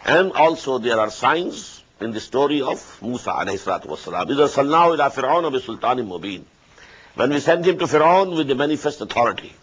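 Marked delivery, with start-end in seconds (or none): 4.3-6.4 rapid Quranic recitation; quick recitation. Acted. Teacher reciting the verse quickly before explaining. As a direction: rattle off the verse briskly.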